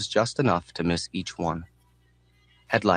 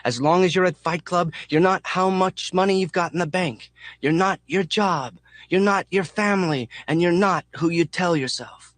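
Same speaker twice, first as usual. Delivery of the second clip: yelling; 10 semitones higher than usual. A narrator's reading. Mechanic yelling out the window into the wind. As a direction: bellow it into the night wind. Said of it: "The mechanic yells into the wind".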